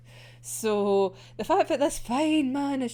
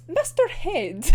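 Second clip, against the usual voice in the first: slow, louder delivery; savoured line; 5 semitones higher, 6 dB louder, slower than usual. Retold or imitated. Fan quoting a favourite translation, slow and louder. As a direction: linger on each word. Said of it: "that I quite like is".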